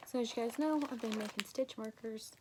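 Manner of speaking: short shallow breaths between words. Real, not acted. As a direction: talk while still catching your breath. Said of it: "I'm out of breath".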